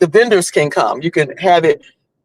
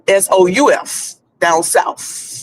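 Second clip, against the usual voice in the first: put-on Southern accent; slower than usual. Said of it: "he sound more like he from down south".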